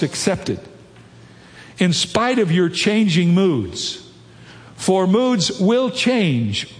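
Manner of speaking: slow, measured reading from the pulpit; quotation read aloud. Acted. Preacher reads C S Lewis on faith and moods, measured quotation reading. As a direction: lift the quote out, phrase by phrase.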